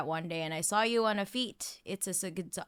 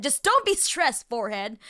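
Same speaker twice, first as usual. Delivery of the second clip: mock dismissive; 2 semitones higher, 5 dB louder than usual. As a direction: toss it off like he doesn't care. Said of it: "he didn't say it like that".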